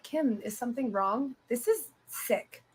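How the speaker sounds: lightly mocking retold fake voice. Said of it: "he puts on a fake voice".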